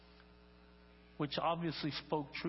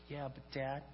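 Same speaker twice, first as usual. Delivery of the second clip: tired little rabbit; 2 semitones lower, 5 dB quieter than usual. Acted. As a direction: wind down like a drowsy little one. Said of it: "getting tireder and tireder".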